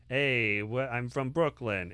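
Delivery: tentative Brooklyn accent. Shown as a demonstration. Reader trying out Carl's voice for her audience, tentative Brooklyn accent. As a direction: try out a rough Brooklyn accent. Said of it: "what a Brooklyn accent sounds like".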